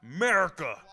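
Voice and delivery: loud rallying call for the home side; patriotic cry. Real, not acted. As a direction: belt the country's name with pride. Proud American cheering his country.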